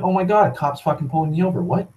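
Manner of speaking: fast, flustered imitation of a panicking driver; hammed-up nervous driver; mock panic. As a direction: stammer it out like someone caught off guard. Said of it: "They're like".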